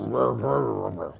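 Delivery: low, soft growl of grumbling. Shown as a demonstration. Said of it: "literally is the word grr".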